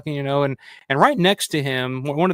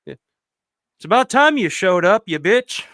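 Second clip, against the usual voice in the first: slow, loud, higher retold scolding; pissed-off grump; 4 semitones higher, 6 dB louder, slower than usual. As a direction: imitate an angry man calling someone out. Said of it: "he was pissed".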